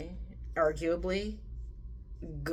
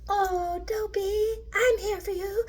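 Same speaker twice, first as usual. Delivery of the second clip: very high, teary cooing voice; Snow White comforting; slower than usual. Retold or imitated. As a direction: coo at him like a weepy princess. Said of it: "Snow White was like".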